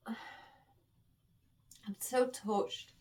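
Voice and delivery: very slow and soft, choked words; holding back tears, barely getting it out; real tears held in; tearful. Real, not acted. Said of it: "I'm trying to hold back here".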